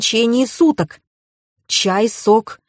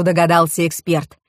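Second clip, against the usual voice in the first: ordinary delivery, nothing marked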